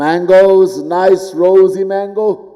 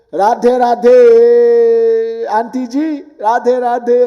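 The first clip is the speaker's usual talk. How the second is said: higher, louder sing-song greeting; cheerful greeting; 7 semitones higher, 5 dB louder, much slower than usual. Pretend. Devotee greets an aunt on the street, cheerful call. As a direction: call out a bright Radhe Radhe.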